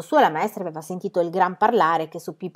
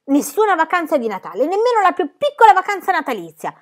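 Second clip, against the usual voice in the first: higher, louder, whining lament; plaintive; 11 semitones higher, 7 dB louder than usual. A narrator's reading. Pippi laments to her friends having no Christmas holiday, plaintive. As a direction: wail it like a child denied a treat. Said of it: "proseguì in tono lamentoso".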